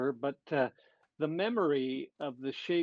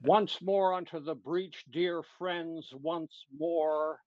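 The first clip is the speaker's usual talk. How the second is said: English accent; 2 semitones higher, slower than usual. Shown as a demonstration. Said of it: "You need that English accent".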